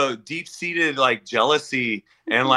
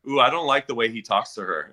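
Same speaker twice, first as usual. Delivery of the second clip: mock prissy critic; 5 semitones lower, 3 dB quieter than usual. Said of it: "and they go".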